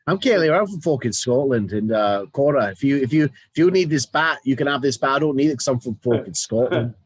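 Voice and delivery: lightly imitated Scottish accent. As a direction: rattle on as a mock-Scottish wrestler. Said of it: "I never get bored with the accents".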